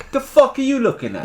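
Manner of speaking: high, loud comic outburst; mock aggressive challenge. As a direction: act out squaring up to someone staring. Retold aggressive challenge to starers.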